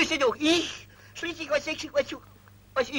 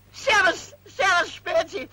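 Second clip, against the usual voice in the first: loud, higher, delighted shout; joyful greeting; 7 semitones higher, 4 dB louder than usual. Acted. The official recognizes his old army pal on the phone and cheers. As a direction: greet the old buddy with a whoop.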